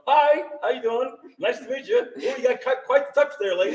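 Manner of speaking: lightly hammed-up sweet talk to a stranger; mock small talk. Nervously chatting up the ghost, mock small talk. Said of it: "I'm talking to her going".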